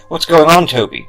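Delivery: loud call over the rain; yelling. Acted. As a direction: yell it back across the yard. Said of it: "my father yelled back".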